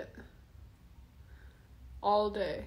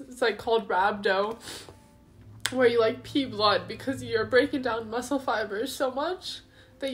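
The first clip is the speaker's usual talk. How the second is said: crying; 3 semitones higher than usual. Real, not acted. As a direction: talk on while fighting back tears. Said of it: "I'm trying not to cry".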